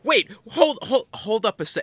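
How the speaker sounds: incredulous interruption. Real, not acted. Interrupts in mock outrage.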